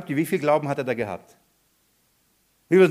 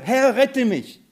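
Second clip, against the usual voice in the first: high, drawn-out cry to be saved; acted plea for help; 7 semitones higher, slower than usual. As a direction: call out slowly as someone sinking, half-acted. Spielt Petrus' Hilferuf beim Sinken. (gespielter, gedehnter Hilferuf)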